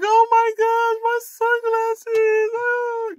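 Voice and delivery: high, loud alarmed cry over lost glasses; panicked gasp. Retold or imitated. Mother driving off remembers her sunglasses, alarmed high cry. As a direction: shriek as if something precious is gone. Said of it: "I'm like".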